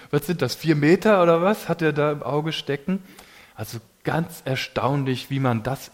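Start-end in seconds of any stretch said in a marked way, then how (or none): 0.1-3.0 higher and louder, incredulous; amazed disbelief. Real, not acted. Preacher to congregation about the picture, amused astonishment. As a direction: marvel at how absurdly long it is.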